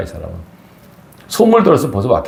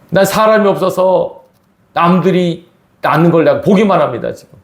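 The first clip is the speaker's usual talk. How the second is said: a resentful, sorrowful sick man answering Jesus; bitter lament; 5 semitones higher than usual. Retold or imitated. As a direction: voice the sick man's grievance to Jesus. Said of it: "이렇게 한스러운 목소리로".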